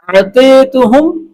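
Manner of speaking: slow, drawn-out "اعطیتہم" with a rise at the end; pronunciation demo. Shown as a demonstration. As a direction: stretch "اعطیتہم" out carefully for learners. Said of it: "تین، تین بار آج دہرا رہا ہوں". ("اعطیتہم" آہستہ، کھینچ کر صاف تلفظ)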